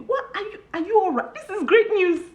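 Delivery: laughing shock at a friend; amazed disbelief. Retold or imitated. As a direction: replay your stunned reaction. Reacts again to friend's news.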